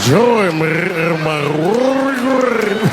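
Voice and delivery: slow, throaty gurgling ghost moan; spooky drowned wife calling him down; rolled-throat ghost voice. Shown as a demonstration. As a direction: roll the throat on watery grave, drawn out and slow. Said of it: "you gotta roll your throat".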